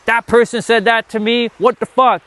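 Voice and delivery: high, indignant mock outburst; hammed-up what-the-hell reaction; mock outrage. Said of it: "instead of reacting to".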